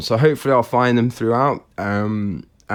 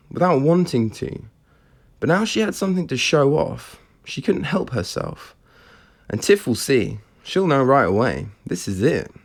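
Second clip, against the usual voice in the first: measured storytelling with a touch of drama; story narration; 2 semitones higher than usual. A narrator's reading. Author reading Catherine's secret to listeners, measured story narration. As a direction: narrate with lilting, falling phrases. Reads own novel aloud.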